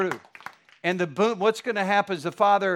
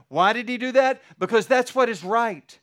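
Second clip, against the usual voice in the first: higher, louder, driving the point home; rising preacher shout; 5 semitones higher, 4 dB louder than usual. Real, not acted. Pastor to congregation, answering his own question with a preacher's shout. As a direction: proclaim it with full force. Preaching builds on synagogue custom.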